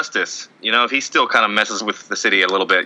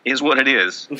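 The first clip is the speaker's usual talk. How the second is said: Colby Rasmus; 2 semitones higher than usual. Acted. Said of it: "my voice is changing".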